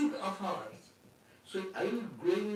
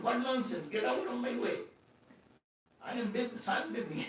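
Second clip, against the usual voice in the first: mild annoyed retort; 5 semitones higher than usual. Retold or imitated. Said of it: "He got annoyed".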